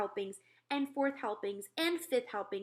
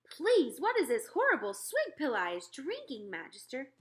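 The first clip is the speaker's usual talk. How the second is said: louder, higher giant complaint; disgusted giant; 5 semitones higher, 5 dB louder than usual. Acted. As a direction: spit out the question in disgust.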